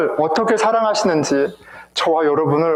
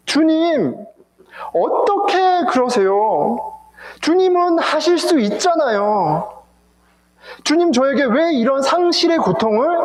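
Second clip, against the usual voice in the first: Mary's lament; 4 semitones higher than usual. Acted. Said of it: "마리아의 그 울부짖음이".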